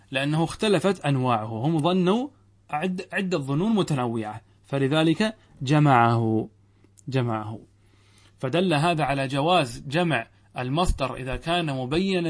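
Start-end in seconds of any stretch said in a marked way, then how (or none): 4.7-7.6 slow emphasis. Shown as a demonstration. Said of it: "teacher emphasis".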